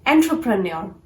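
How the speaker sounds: "entrepreneur" as en-tro-pre-nor; "entrepreneur" with R straight after T; correct entrepreneur. Shown as a demonstration. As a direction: keep TRO clear in "entrepreneur". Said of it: "start speaking this word as".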